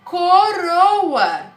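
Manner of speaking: coroa said loud and drawn out; teacher showing an easy word; clear naming. Shown as a demonstration. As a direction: announce coroa to the kids. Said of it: "a próxima é facílima".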